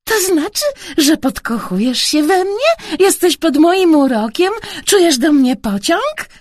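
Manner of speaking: high, playful questioning; giggled teasing. A narrator's reading. Girl teasing the uncle, lightly giggling. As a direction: tease with a hint of giggle. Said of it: "chichotała".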